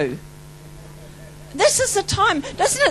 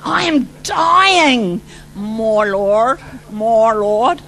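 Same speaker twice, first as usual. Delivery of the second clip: crying out; 3 semitones lower, 4 dB louder, much slower than usual. Retold or imitated. Retells crying out under the power.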